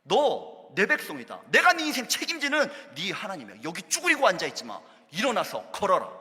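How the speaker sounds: mild loud command to rise; God shouting. Acted. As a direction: lift them up with a shout. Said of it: "이렇게 소리치시는 것 같아요".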